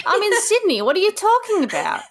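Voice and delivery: high, hammed-up confused protest; imitating bewilderment. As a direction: play someone totally thrown, voice leaping up. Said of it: "He's so confused".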